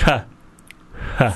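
mouth held open. Real, not acted. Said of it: "the mouth is wide open".

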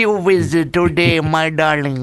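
a light put-on Irish lilt, teasing; mock Irish accent. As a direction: slip into a hammy Irish accent for the caller. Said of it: "I might start doing one myself".

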